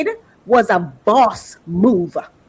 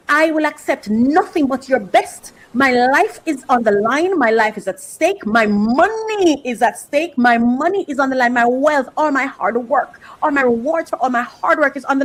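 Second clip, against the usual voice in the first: commanding boss. Retold or imitated. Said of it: "because he is saying".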